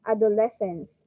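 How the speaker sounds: "Adolescence" with the weight on LES; stress on third syllable. Shown as a demonstration. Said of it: "stress is on the third syllable".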